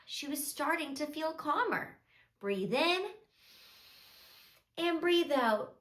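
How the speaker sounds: soft, measured storybook narration; children's storytelling. A narrator's reading. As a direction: tell a gentle story to small children.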